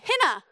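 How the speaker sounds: emphatic call-and-repeat "hina", stressed up front; pronunciation demo. Shown as a demonstration. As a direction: cue the crowd with a punched "hina". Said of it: "So everyone say it again".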